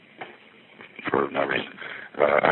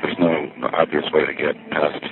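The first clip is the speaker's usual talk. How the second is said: normal talking voice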